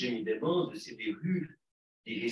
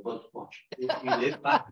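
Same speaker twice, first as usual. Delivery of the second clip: laughing; 3 semitones higher, 5 dB louder than usual. Real, not acted. Laughing while retelling a compliment.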